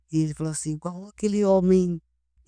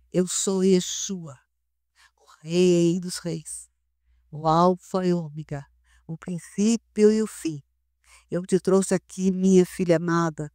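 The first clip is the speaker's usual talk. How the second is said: slow, solemn, tender lightly voiced Lord; sweet voice of God; slower than usual. Retelling how the Lord spoke to her, slow and tender. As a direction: speak each phrase slowly like a gentle king. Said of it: "só ouvi a voz mais doce".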